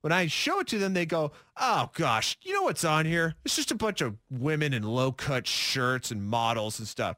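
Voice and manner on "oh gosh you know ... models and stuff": mock disdainful "oh, gosh" delivery; disapproving tone. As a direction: imitate coworkers turning their noses up. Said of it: "Why would they say it in that tone?".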